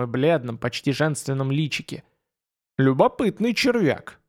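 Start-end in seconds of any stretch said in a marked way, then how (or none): 2.8-4.2 higher, menacing demonic voice; rumbling demon voice. A narrator's reading. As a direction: sneer it as a demon inside a head. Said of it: "раздался в голове ракочущий голос демона".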